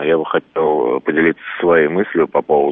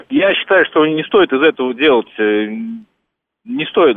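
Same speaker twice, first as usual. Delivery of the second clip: nervous; 7 semitones higher than usual. Real, not acted. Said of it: "я просто немножко волнуюсь".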